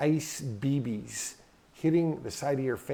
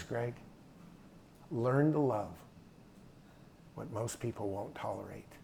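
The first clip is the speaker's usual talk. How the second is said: tearful, joyful dad quote; 8 dB quieter than usual. Retold or imitated. He had tears of joy.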